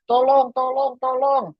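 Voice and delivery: pura-pura berteriak minta tolong, nada tinggi; teriak minta tolong. Acted. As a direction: act out a high-pitched cry for help. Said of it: "mas-mas sambil teriak". (berseru minta tolong dengan nada melengking tinggi)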